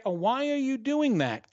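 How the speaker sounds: high, dramatic questioning; animated self-imitation. Shown as a demonstration. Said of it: "that one phrase".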